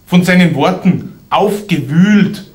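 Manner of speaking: lilting dialect verse, falling away at the end; comic poem recital. Acted. Poet to audience about a silverfish, comic dialect recital. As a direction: recite it as rhymed storytelling.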